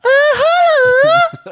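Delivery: a long, high, put-on Chinese "uh-huh"; Chinese accent. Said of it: "Oh, do the Chinese then".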